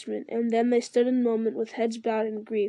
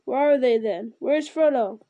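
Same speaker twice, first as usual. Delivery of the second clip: urgent demand; 5 dB louder than usual. Acted. Gimli demands news of hobbits.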